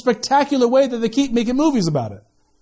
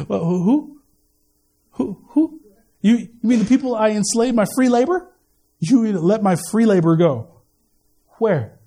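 Pharaoh. Retold or imitated. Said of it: "Pharaoh's response".

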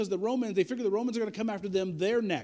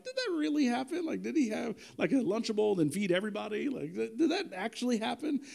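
acted private doubt, pitched up at the start; 2 semitones higher, 4 dB quieter than usual. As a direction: question it lightly, as if hard to believe. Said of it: "I occasionally have my doubts".

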